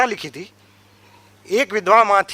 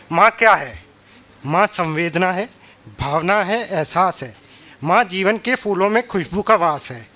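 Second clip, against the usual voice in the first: declaimed list poem, short phrases set apart by pauses; measured stage recital with falling line ends; poem recitation. Acted. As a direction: recite an ode to mother, image by image.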